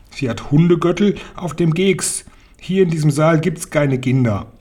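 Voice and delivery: a hint of imperious witch; scornful Grand High Witch. Grand High Witch dismisses the claim.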